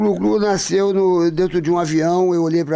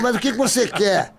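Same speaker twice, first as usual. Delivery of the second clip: laughing stewardess; 2 semitones higher, faster than usual. Retold or imitated. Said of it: "ela falou".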